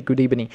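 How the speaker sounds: "good evening" said as "goodee-benin"; coach's mispronunciation. Retold or imitated. Quoting the football coach, "good evening" mispronounced as "goodee-benin". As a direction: imitate an accented "good evening", v turned to b. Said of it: "You can search Unai Emery".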